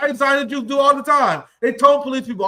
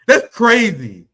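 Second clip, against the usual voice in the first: laughing disbelief; slower than usual. Real, not acted. Streamer repeats the reaction, now laughing in disbelief. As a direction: let a real laugh spill into it.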